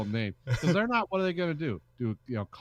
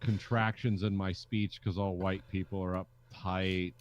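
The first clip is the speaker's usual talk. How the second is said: uptight over-enunciated voice; 4 semitones lower than usual. Retold or imitated. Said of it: "I'm gonna talk like".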